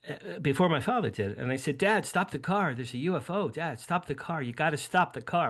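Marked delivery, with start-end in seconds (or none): 1.8-5.5 mild mock yell, urgent and higher; retold yelling. Teen urging his father to stop the car, mock yelling. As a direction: re-enact a kid's urgent yell without real volume. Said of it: "I'm, like, yelling at my father".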